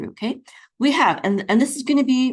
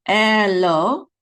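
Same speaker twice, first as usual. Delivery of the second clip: syllable by syllable; 2 semitones higher, 6 dB louder than usual. Shown as a demonstration. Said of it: "this is lo".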